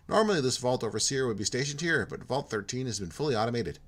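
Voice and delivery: put-on polite, lightly done Minnesota accent; hint of a chirpy Minnesota accent. Jim welcoming Porto in a light Minnesota accent. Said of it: "He's from Minnesota".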